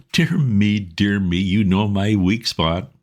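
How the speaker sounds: lightly voiced old lord, a touch of gurgle; a hint of a pleased chuckle in it; chuckling old lord. A narrator's reading. Old lord caught by flattery, mild chuckling. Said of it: "gave a sort of gurgling chuckle".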